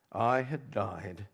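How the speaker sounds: slow, hushed and broken, almost to himself; grieving father's muted cry; hushed weeping lament. A narrator's reading. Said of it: "and wept".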